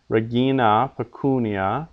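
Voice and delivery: reGIna, peCUnia; long stressed syllable. Shown as a demonstration. Teacher repeating long-penult examples, regina, pecunia stressed on GI and CU. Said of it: "second last syllable in each case is long".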